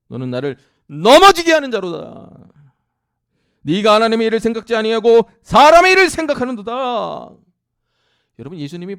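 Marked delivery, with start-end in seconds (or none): 0.1-7.4 very loud, stern declaration; stern loud rebuke. Acted. Jesus condemning Peter, very loud stern rebuke. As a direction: condemn him with full force. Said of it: "이르시되".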